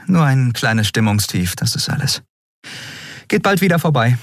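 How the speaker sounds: a hint of masked sadness; Endriel hiding sadness. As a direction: brush it off lightly. Endriel hides her sadness.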